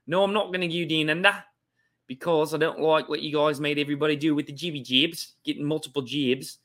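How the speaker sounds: put-on Australian accent, comic; hammy Aussie accent. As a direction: play it in a mock Australian accent. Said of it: "Australian accent".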